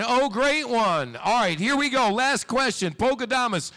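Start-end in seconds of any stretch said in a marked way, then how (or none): 0.0-1.2 slow, high, mock worship; bow to the great one mockingly; mock reverent. Host worships psychic mockingly.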